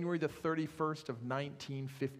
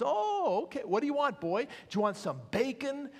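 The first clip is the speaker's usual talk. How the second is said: friendly butcher; 3 semitones higher than usual. Acted. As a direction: coax the dog like a pet. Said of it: "the butcher ... looks down and says".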